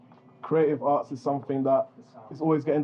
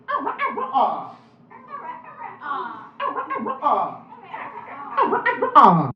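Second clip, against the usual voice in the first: high ah; 3 dB louder, much slower than usual. Shown as a demonstration. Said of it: "say ah at the end".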